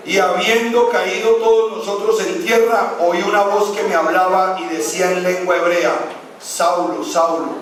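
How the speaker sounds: lectura fuerte y solemne del pasaje; lectura predicada. Acted. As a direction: proclama el versículo a la congregación. Lee el pasaje con fuerza. (lectura solemne y enfática)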